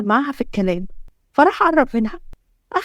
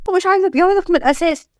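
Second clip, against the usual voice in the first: higher-pitched, agitated protest; upset refusal; 5 semitones higher than usual. Acted. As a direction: push back at the husband, voice raised in pitch. Heroine rejects the marriage in quarrel. (رفض بانفعال)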